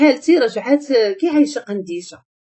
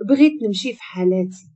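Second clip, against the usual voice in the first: ordinary delivery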